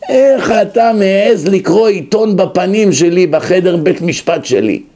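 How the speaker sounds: mildly indignant judge; retold angrier judge. Judge scolding man reading in his courtroom, mild mock anger. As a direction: scold him with a touch of mock outrage. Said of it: "הוא עוד יותר מתעצבן".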